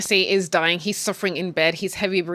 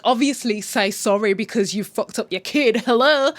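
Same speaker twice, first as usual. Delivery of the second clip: exasperated; 3 semitones higher, 4 dB louder than usual. Real, not acted. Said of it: "In my head".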